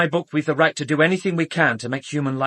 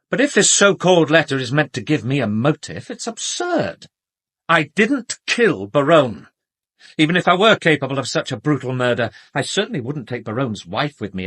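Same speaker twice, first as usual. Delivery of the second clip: louder, rising outrage, pushing back hard; indignant denial; 3 semitones higher, 6 dB louder than usual. Acted. Doctor to detectives, indignantly rejecting the motive, raised voice. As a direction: defend yourself against the accusation, voice climbing. Accused doctor denies murder charge.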